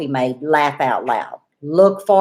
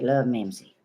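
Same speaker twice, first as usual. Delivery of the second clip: "Love, Mimsy." said softer and lower, dropping away in disbelief; stunned murmur; 8 semitones lower, 8 dB quieter than usual. Retold or imitated. Realizing the gift came from Anna, stunned quiet.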